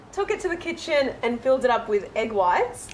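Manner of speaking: words breaking into laughter; laughing through it. Real, not acted. Guest laughing as she tells the host about the prank.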